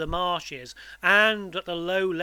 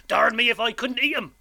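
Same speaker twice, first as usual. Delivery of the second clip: loud, raised, hungry threat; threatening convict; 5 semitones higher, 6 dB louder than usual. A narrator's reading. Convict threatens to eat boy, menacing. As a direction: menace the child with relish. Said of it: "with a threatening shake of his head".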